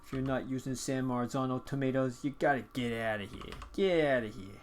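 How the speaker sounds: put-on half-hearted Brooklyn accent, dismissive; a light Brooklyn accent, waving someone off. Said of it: "That's my, um, poor Brooklyn accent".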